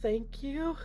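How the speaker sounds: high, stunned thanks, imitating the wife; mock shock, pitched well up. Wife receiving the severed finger's ring, shocked and high. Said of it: "Like, shocked".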